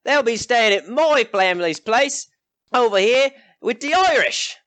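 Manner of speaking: outbid the other hosts; rowdy villager. Acted. Third villager claims the guests.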